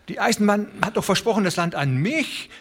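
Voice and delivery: put-on high, fast, faltering old voice; old man stammering. Old Broderson pleading about the railway's promise, stammering. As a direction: tumble out the words in old-man panic. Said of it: "stammelte der alte Broderson".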